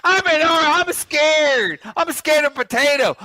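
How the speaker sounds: high whiny mocking voice; mock orange. S1 taunting the orange streamer, high mocking whine. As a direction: pretend to be a scared orange.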